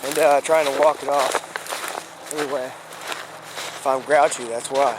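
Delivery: talking around a wad of gum; chewing while talking. Real, not acted. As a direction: mouth full, chewing as he talks. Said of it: "So I'm chewing".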